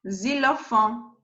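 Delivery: "xylophone" starting with a Z sound; French "xylophone", buzzing Z at the front; X pronounced Z. Shown as a demonstration. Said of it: "you pronounce Z".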